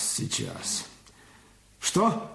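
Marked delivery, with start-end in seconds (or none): 0.0-0.9 whisper. Acted. Aside while on the phone.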